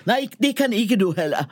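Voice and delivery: shouting back at the angry barista; yelling back. Retold or imitated. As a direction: shout it right back at her. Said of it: "jag skriker tillbaka".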